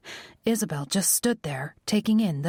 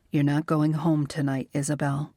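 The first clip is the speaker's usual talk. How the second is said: gentle but firm; 3 semitones lower than usual. Acted. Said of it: "as gently as he could while still being firm".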